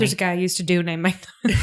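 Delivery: fast slurred mishearing; mumbled imitation. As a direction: garble it like a mishearing. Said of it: "That's what it sounded like".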